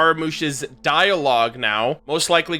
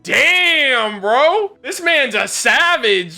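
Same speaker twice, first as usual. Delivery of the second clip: much higher, louder hyped shout; hyped reaction; 8 semitones higher, 5 dB louder, much slower than usual. Retold or imitated. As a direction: blurt it out like the line blew you away. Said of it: "I was like".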